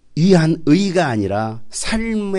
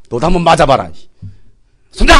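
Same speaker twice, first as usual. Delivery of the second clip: acted-out retaliation ending in a shout; mock scolding that bursts out; retold angry yell; 5 dB louder than usual. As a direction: re-enact snapping back at a child. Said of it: "때릴 때는 소리 지르라는 거죠".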